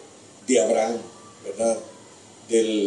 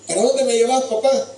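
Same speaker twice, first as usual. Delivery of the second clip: pleading son; 13 semitones higher, 4 dB louder than usual. Acted. Boy Isaac asks his father.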